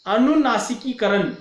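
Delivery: अनुनासिकीकरण with weight on नासिकी; syllable stress. Shown as a demonstration. Teacher showing which sounds take force, stressed demo. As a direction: lean on the middle syllables of अनुनासिकीकरण. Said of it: "विशिष्ट ध्वनियों पर हम बु-, जोर देकर".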